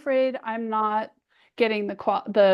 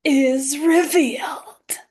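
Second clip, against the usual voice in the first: slow, hushed reveal; dramatic whisper; slower than usual. Pretend. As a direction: whisper it like a big unveiling. Dramatic reveal on video call.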